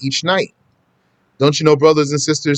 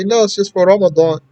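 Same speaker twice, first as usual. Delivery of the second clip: quick, higher-pitched, lightly acted reassurance; patient, easy answer; 4 semitones higher, faster than usual. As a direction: answer patiently without getting upset. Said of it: "give the person a very easy answer instead of being upset".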